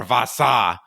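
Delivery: "Vasa" as a put-on French name; mocked French pronunciation. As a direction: imitate the hosts' Frenchified "Vasa". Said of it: "every time the two of you utter".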